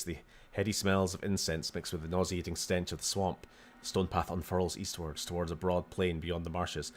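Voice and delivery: reading room text aloud, storyteller; game narration. Acted. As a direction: narrate the scene like an adventure game. Reads text adventure aloud.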